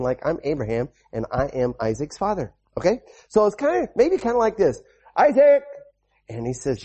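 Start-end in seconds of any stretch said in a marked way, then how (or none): 5.1-5.6 calling out. Acted. Preacher acting Abraham calling son.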